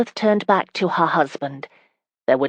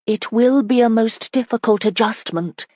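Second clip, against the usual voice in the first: serious; 6 semitones higher than usual. A narrator's reading. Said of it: "her voice serious".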